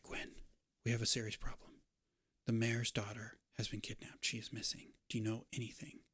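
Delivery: soft, hurried near-whisper; rapid hushed stranger. Acted. Cloaked stranger telling the landlady of the kidnapping, hushed and rushed. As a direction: rush the news out under your breath. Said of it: "starts speaking very rapidly".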